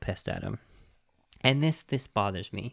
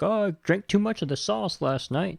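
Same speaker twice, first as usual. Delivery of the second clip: put-on drunken cowboy; 9 semitones higher than usual. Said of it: "like, in a drunken stupor".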